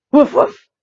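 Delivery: two loud, short woofs; playful doggy imitation; dog bark. A narrator's reading. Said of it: "said the dog".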